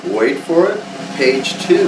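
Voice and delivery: drumroll voice, then the reveal; building reveal. Pretend.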